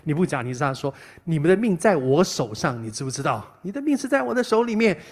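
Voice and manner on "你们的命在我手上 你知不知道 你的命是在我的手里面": arrogant king. Retold or imitated. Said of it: "那个王很嚣张啊".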